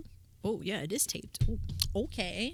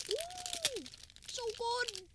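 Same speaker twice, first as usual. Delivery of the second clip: eating sour candy; 11 dB quieter, much slower than usual. Real, not acted. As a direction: mouth full of sour candy. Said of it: "I'm gonna have one right now".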